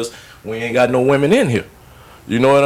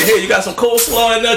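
lightly acted, higher-pitched asking; imitated guest request; 10 semitones higher than usual. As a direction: pipe up like a hopeful visitor. Acting out a hypothetical house visitor.

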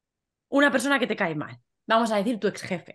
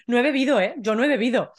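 insistent mock denial to police; acted denial; 2 semitones higher, 4 dB louder than usual. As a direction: protest innocence to a police officer, lightly acted. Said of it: "vosotros decís". (negándolo con insistencia fingida)

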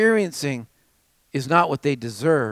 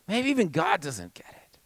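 hushed whisper; 6 dB quieter than usual. Retold or imitated. Lonely believer doubting God, whispered.

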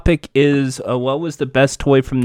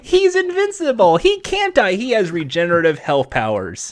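higher, theatrical explainer voice; hammy comic-book host; 7 semitones higher than usual. Acted. Answering Jack about an invincible hero, hammy higher voice. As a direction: soar into mock-dramatic fanboy announcing.

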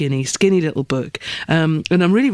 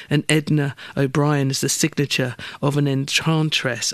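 slurring around loose false teeth; talking with loose dentures. Real, not acted. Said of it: "put my teeth back in".

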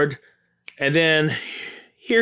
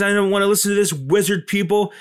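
mock defiant steward; 8 semitones higher, faster than usual.

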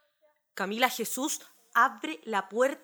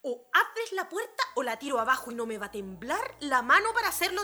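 fast, rising stern order; stern threat; 3 semitones higher, faster than usual. Acted. Mother threatening daughter through locked door, stern. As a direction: lay down the law, then snap.

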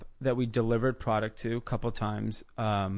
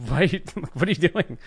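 retold alarm; 5 semitones higher than usual. Retelling his shock at the ultimatum.

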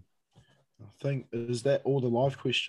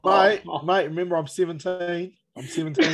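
laughing, higher and louder; laughing protest; 5 semitones higher, 4 dB louder than usual. Real, not acted. Laughing protest at sweat joke.

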